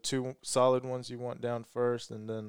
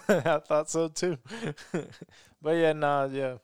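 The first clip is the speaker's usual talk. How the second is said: spoken through a real laugh, louder; 4 semitones higher, 4 dB louder than usual. Real, not acted. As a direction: chuckle it out, a bit louder. Laughing about Alabama folk.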